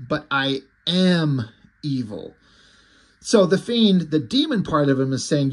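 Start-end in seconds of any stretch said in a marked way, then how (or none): 0.1-2.4 drawn-out, punched "am" before "evil"; stress on AM. Retold or imitated. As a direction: lean slowly on the word "am". Villain stressing his own evil.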